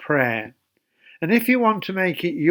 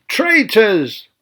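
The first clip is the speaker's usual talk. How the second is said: mild mock scream; 5 semitones higher, 4 dB louder than usual. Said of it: "jumped up and down and screamed".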